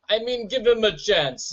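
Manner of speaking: lightly faked Jamaican accent; mock Jamaican accent. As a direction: try a half-hearted Jamaican accent. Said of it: "trying his hardest with the accent".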